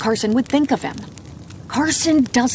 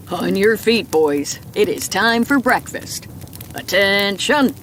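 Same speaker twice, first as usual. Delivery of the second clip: drill sergeant voice. Retold or imitated. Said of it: "like his dad's drill sergeant voice".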